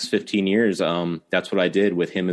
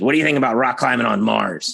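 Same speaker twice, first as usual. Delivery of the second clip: put-on nasal voice, much higher; 5 semitones higher, 5 dB louder than usual. Retelling a phone call where a man came on the line, imitating a nasal voice. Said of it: "this real nasally voice".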